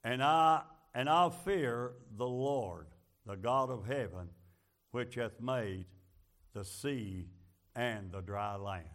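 low, soft and slow, a solemn confession; humbled Jonah. Retold or imitated. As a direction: drop the voice deep and reverent. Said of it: "And Jonah admitted".

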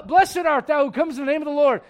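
loud, high fake-holy blessing; hammed-up piety; mock pious greeting. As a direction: greet like a showy saint. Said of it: "and he goes".

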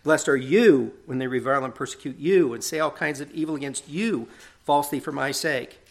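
each "you" given extra weight; stress on you. Retold or imitated. Preacher reading the preceding verse, emphasis on you. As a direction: lean on every "you" in the verse. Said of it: "he continues the emphasis".

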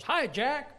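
put-on high kid's greeting, rising at the end; little kid. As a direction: imitate a small boy calling hello. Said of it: "some little kid comes by".

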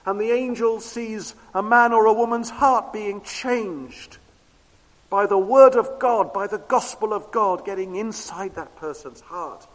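ringing pulpit voice, each phrase driven hard; preaching at full force. Acted. Preacher urging the congregation to look at changed lives, at full force. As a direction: preach it out to the whole hall.

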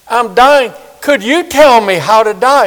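high, urgent plea; pleading dying man. Retold or imitated. Dying man pleading, voiced in story.

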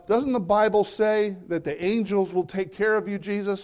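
a hint of a sly devil; devil quoting. Devil tempting Jesus, lightly mocking. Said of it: "he says".

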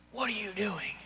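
talking down. Acted. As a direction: confront a kid from above, accusingly. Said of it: "Guess what that makes them feel?".

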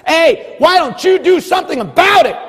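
high, loud shouted challenge; preaching shout. Real, not acted. Preacher shouting his challenge at the congregation, loud and high. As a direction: belt it out to the congregation.

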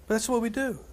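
unvoiced aside to the room; a whispered knowing aside. Real, not acted. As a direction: lean in and whisper it.

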